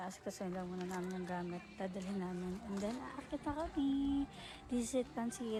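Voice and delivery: usual speaking voice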